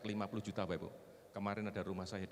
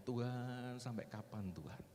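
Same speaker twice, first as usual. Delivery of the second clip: soft, tired plea to God; retold weary prayer; 4 dB quieter, slower than usual. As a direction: re-enact a worn-out prayer, sinking quieter. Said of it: "Seringkali saya capek ngomong". (menirukan doa lirih orang capek)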